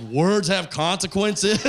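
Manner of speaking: slow, weighty delivery; solemn pronouncement. Retold or imitated. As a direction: deliver it like wisdom. Blind Daryl repeating catchphrase.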